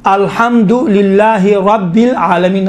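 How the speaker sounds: रब्बिल with a thick, full ra; heavy ra. Shown as a demonstration. Teacher showing the heavy ra to students. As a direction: weigh down the ra in रब्बिल. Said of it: "रा को चूँकि ज़बर है, मोटा तलफ़ुज़".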